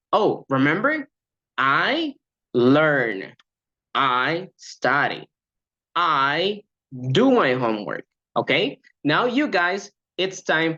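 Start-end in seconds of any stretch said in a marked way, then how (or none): 0.1-8.1 giving options. Shown as a demonstration. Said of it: "An example could be".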